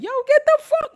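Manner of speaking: sudden high, loud shout to back someone off; loud yell. Retold or imitated. Telling off someone he'd rather not hit, with a loud yell. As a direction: bark it out before you swing. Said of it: "then I'm gonna be like".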